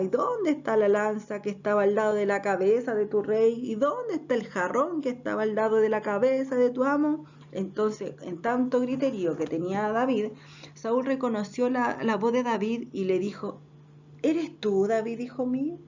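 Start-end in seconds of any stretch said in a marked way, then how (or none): 0.0-7.2 taunting questions with a punched, stretched "dónde"; mildly jeer, leaning on each question word; mocking. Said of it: "empezó a burlarse y le gritaba". 14.2-15.8 mock-puzzled rising question; playing innocent. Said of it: "haciéndose el loco".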